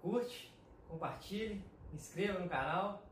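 list-like call to action, paused between items; lightly put-on YouTuber plug; playing the YouTuber. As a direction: reel off the channel plug item by item. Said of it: "vou dar um de YouTube aqui".

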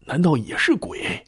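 whispered, breathless dread; hushed frightened inner voice; fearful whisper. Acted. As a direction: whisper it as a terrified thought. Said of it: "心想".

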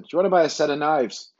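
lightly mimicked seller's accent; imitated street seller's accent. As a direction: repeat it in the stranger's borrowed accent. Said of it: "That was his accent".

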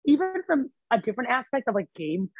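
talking through hiccups; speech broken by hiccups. Real, not acted. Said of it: "got the hiccups now".

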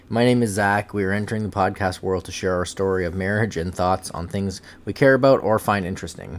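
loud, projected show introduction; podcast intro. Pretend. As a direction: announce the podcast to the listeners.

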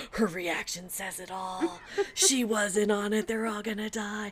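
slow, drawn-out dramatic dread; hammed-up horror-movie panic; mock paranoid horror. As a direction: stretch it out like a horrified realisation. Mock paranoid movie-style realisation.

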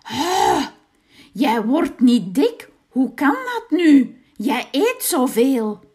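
a witch who can't understand it; puzzled witch. A narrator's reading. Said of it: "en ze zei". (verbaasde heks, luider)

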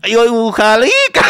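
high, loud imitated Latino accent; mock Latino accent. Retelling a comic's bit to friends, high mock Latino accent. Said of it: "y hace un acento latino".

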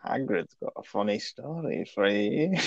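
a light, sing-song ice cream man voice; cheery ice cream seller. Acted. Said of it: "you sound like an ice cream man who's, like, got kids in the back".

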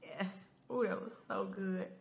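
high, excited ooh; delighted. Real, not acted. Loving the Ezekiel speech ending, high excited gushing. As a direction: gush with real joy.

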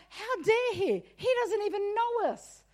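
mock indignation; indignant. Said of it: "And I'm like".

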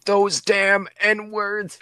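a hammed-up old man spitting the words; cranky old racist. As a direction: ham up a bitter old bigot.

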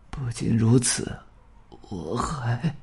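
slow, almost inaudible dying voice; barely audible. Acted. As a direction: let the last words vanish. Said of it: "几乎听不到了". (几乎听不见的微弱声音)

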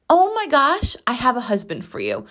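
high-pitched start, falling back; excited nail lady. Retold or imitated. Nail lady matchmaking for her customer, imitated excitement. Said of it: "And she goes".

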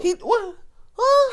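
high, loud startled huh; shocked huh. Real, not acted. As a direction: squeal it out in disbelief. Shocked reaction to claim.

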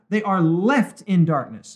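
slow, with weight on "left"; emphatic. Real, not acted. Host drives the point home to listeners, emphatic. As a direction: press home the word "left" deliberately. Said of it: "I just can't emphasize that point enough".

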